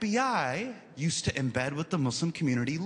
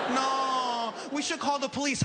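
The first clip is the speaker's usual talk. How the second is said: lightly voiced friend; 8 semitones higher than usual. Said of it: "friend's quote, raised voice".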